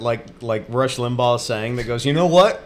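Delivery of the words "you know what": mock-mad caller, higher and louder; indignant caller. Imitating angry listener calling radio show, mock indignation. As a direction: work up a hammed-up outrage. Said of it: "Who's sitting there so mad".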